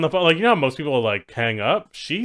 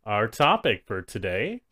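robot voice. Pretend. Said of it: "You sound like a robot".

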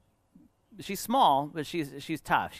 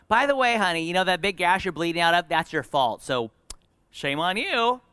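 higher, louder start, chiding parent; mock scolding; 4 semitones higher, 4 dB louder than usual. Parent blaming an injured child, mock scolding. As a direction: chide like a tactless parent.

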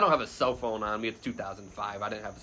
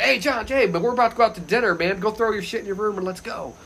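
higher-pitched retold buddy calling out; eager, raised-pitch invitation; hearty greeting; 8 semitones higher than usual. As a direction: imitate a pal rounding someone up for dinner. Acted greeting from colleague in story.

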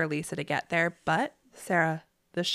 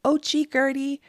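mock apology; 8 semitones higher than usual. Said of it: "instead of taking that moment to say".

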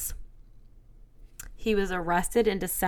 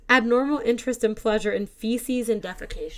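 reading through laughter; laughing while reading; 2 semitones higher, 5 dB louder than usual. Real, not acted. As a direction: read it out, barely holding back laughs. Reading the gross definition.

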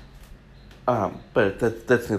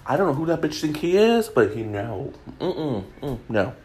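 sassy Queen; 5 semitones higher than usual. Retold or imitated. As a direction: throw shade like a sassy queen. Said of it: "issue a statement like".

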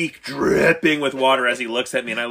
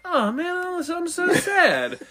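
1 mock whimper; slower than usual. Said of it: "I was like".

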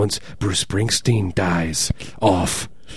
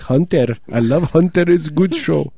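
grandma voice; 6 semitones higher than usual. Retold or imitated. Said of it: "She's like".

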